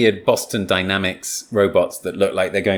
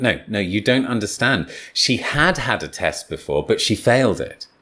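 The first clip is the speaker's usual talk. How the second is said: "She had had" with a clear push on the first "had"; correcting stress. Shown as a demonstration. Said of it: "you might say something like".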